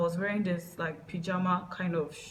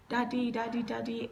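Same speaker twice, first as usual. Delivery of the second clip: retold shout for dad; 5 semitones higher than usual. Child calling to Dad on sighting him, mild retold shout. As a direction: call out for Daddy urgently, without full volume. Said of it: "I shouted".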